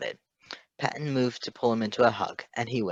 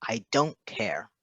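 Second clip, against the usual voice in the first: instantly; slower than usual. Acted. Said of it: "Patton said instantly".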